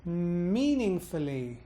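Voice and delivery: slow "meaningfully" from a hummed M, swooping up then down; one long bounce over "meaningfully"; whole-word rise-fall. Shown as a demonstration. Teacher extending the bounce over the whole word. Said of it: "Allow the rise fall".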